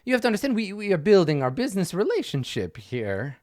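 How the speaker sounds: a hint of a fussy, flustered patron; quest giver voice.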